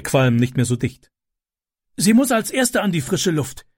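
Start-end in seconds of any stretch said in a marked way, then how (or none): 2.0-3.7 higher, lightly voiced gasping man; a lightly breathless man; mild panting rescuer. A narrator's reading. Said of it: "keuchte der Mann".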